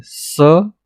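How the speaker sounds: स as a long hissing sss; s sound. Shown as a demonstration. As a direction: hiss out स cleanly. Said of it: "इसको एस बोलते हैं". (स की लंबी सी ध्वनि)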